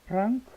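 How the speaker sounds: 프랑크 said high and loud as a model; emphatic model. Shown as a demonstration. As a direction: announce 프랑크 boldly to the class. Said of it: "프랑스는 여러분 어떻게 되겠습니까".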